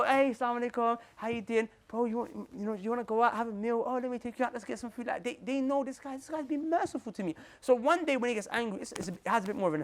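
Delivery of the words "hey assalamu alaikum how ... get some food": soft, friendly invite; lightly voiced kind offer of a meal; friendly greeting. Speaker inviting the brothers for food, softer and friendly. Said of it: "I go".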